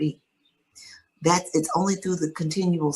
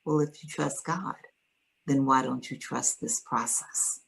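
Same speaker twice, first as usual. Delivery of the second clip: calm; 3 semitones lower, 6 dB quieter than usual. Retold or imitated. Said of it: "very calmly".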